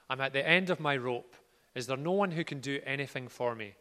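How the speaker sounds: earnest read-aloud of Paul's words; scripture reading. Acted. Preacher reading Paul's letter to the congregation, earnest. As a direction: read Paul's plea with feeling. Reads Paul from Message Bible.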